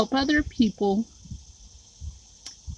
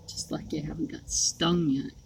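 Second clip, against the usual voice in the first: whispering; 3 semitones lower, 6 dB quieter than usual. Real, not acted. Aside about mosquito bites.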